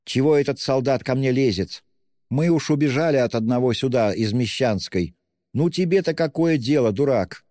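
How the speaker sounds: high, sharp scolding; angry retort. A narrator's reading. Widow snaps at the policeman, high and angry. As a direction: snap back at the policeman.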